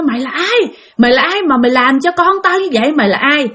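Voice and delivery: mildly angry father's challenge; scolding father. Retold or imitated. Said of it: "Ba của bạn thì chửi nó".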